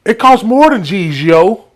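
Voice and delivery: put-on the teen's line, yo included; clueless New York kid. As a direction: add the yo with confidence. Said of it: "I had to throw in the yo".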